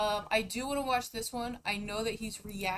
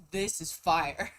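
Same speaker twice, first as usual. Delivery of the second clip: laughing; 5 semitones lower, 3 dB louder, slower than usual. Retold or imitated. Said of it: "I'm like".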